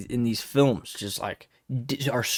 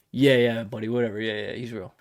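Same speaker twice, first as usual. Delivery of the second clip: lower, offhand brush-off; dismissive; 3 semitones lower than usual. Acted. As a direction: wave the question away, voice sinking and trailing away. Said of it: "why are you so dismissive".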